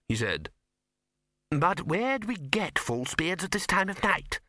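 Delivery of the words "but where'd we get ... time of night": higher, slow and unsure; doubtful. A narrator's reading. Wizard questioning the beard plan: higher doubtful voice. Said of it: "said a wizard doubtfully".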